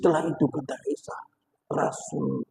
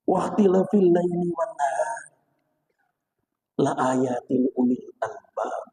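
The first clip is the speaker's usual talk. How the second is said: Quran recitation. A narrator's reading. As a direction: recite the Arabic verses solemnly, phrase by phrase. Recites Quran verses within the story. (melantunkan ayat Al-Quran)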